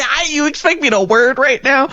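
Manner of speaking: fast, laughing out of breath. Retold or imitated. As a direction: blurt it through laughter.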